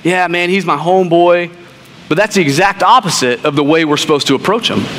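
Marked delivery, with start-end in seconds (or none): 0.0-1.5 nonchalant. Retold or imitated. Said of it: "just a nonchalant".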